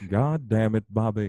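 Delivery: a lightly voiced Hank Hill scolding; mildly exasperated Texan dad; Hank Hill impression. Scolding his son Bobby as Hank Hill, mild Texan. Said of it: "Hank Hill".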